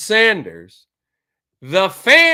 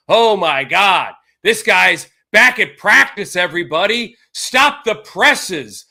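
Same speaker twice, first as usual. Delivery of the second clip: sarcastic mock excitement; 4 dB louder than usual. Mock hype over Watson practicing.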